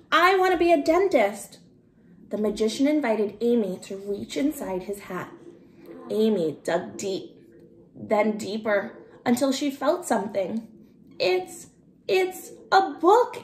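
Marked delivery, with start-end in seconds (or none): 0.1-1.6 put-on higher, louder child's eager call; eager shout. Amy shouting her dream to the magician, high and eager. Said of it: "Amy shouted". 11.2-13.4 much higher, stammering with wonder; excited shout. Acted. Amy pulling a book from the hat, high and thrilled. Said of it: "Amy shouted".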